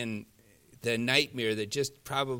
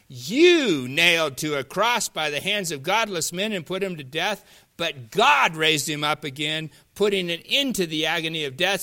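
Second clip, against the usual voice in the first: loud, raised proclamation; Peter preaching; 3 semitones higher, 6 dB louder than usual. Acted. Peter preaching to the men of Israel, loud and forceful. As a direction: preach it out with punched key words. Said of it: "Peter's out there preaching".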